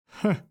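short laugh. A narrator's reading. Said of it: "хохочет Иона".

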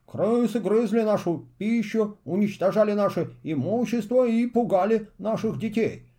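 grand ceremonial newspaper reading; solemn reading voice. Acted. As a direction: read it out like a proclamation. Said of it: "И торжественным голосом он прочитал".

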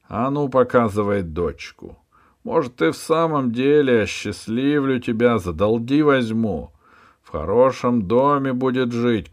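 high, loud shouting tirade; angry boss. Acted. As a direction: berate the cringing ferryman. Hunchback offers deal. (высоко и громко, злобно)

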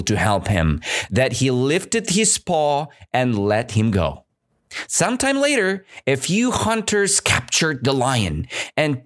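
clear, lively storytelling read; story reading. Acted. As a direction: read the fable to learners. Teacher reads fable aloud.

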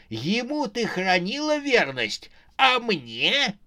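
high, indignant cry; hoarse cry. Acted. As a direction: cry out in outrage, high-pitched. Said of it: "раздался хриплый крик". (хриплый возмущённый крик)

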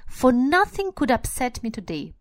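a hint of the squeaky old man. Shown as a demonstration. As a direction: lift the pitch a little, squeaky and glad. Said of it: "in a squeaky voice".

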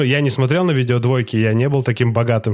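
blocked nose, talking through it; stuffy nose. Real, not acted. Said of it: "потому что у меня нос заложен".

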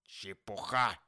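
loud, scornful grumble; grumbling dismissal. A narrator's reading. Scrooge rejecting his nephew's holiday cheer, grumbling. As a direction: dismiss it with a grumpy burst. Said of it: "проворчал Скрудж".

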